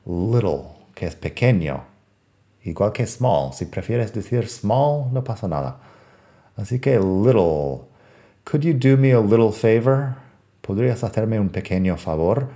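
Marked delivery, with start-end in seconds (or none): 0.0-0.6 natural American "Little", tapped T. Shown as a demonstration. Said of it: "como si fuera una D". 8.4-10.2 easy tapped T in "little"; natural American little. Shown as a demonstration. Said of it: "Así de natural".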